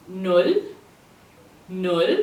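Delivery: Null with a long oo, lifting at the end; say-it-with-me Null, vowel held; stretched-out U. Shown as a demonstration. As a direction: stretch out the U of Null for learners to repeat. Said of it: "because the U is stretched out".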